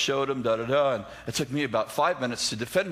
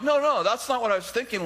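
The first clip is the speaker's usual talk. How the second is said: higher, louder quick denial; defensive protest; 10 semitones higher, 4 dB louder than usual. Retold or imitated. Defending himself to Danny: high defensive protest. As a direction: push back fast, defending yourself. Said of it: "immediately defended myself".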